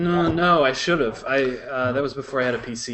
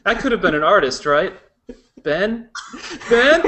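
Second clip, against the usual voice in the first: zombie; 6 semitones higher, 6 dB louder than usual. Retold or imitated. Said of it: "I'll be providing the zombie sounds".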